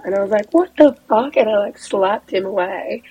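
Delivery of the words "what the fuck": high, appalled exclamation; retold outraged shock. Woman reacting to creep pulling her shirt, appalled. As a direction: recoil in disbelief, pitched up.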